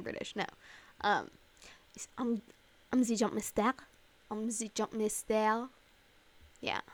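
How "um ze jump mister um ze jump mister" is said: put-on game character's French accent. Host imitating the Apex French character, French accent. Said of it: "That's, like, the only thing that I can do".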